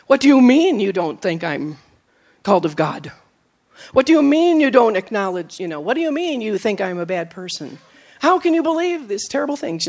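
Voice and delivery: wounded pride. Retold or imitated. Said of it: "It hurt my pride".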